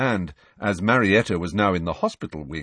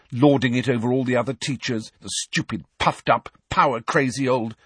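vicious; 4 semitones higher than usual. Acted. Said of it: "said Hermione viciously".

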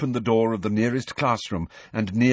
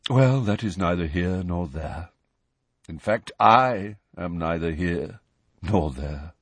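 sad reflective; 3 semitones lower than usual. Acted. Nick sadly reflecting.

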